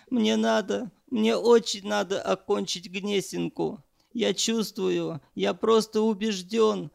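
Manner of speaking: high, crying plea; begging through tears; young man begging not to be sent away, voice high and teary; tearful pleading. A narrator's reading. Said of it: "заплакал и ... забормотал".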